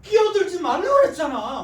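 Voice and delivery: high, loud fighting yell, laughing; hammed-up quarrel shout; angry shout. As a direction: bark it like mid-fight. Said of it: "싸울 때도 그러".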